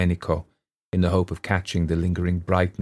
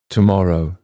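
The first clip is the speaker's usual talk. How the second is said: blurted out, louder; sudden cry; 6 dB louder than usual. A narrator's reading. Daughter cuts in on her father, sudden louder cry. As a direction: cut in before anyone can refuse. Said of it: "cried Miss Lombard, speaking suddenly".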